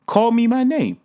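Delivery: high, loud insistence; loud, high-pitched demand. Retold or imitated. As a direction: shoot up and demand it. Demanding customer voice.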